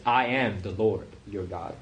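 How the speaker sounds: firm stress on "I"; "I" said with weight; emphatic. Retold or imitated. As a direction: lean on "I" as an emphatic declaration. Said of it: "it's really emphatic when in verse ten".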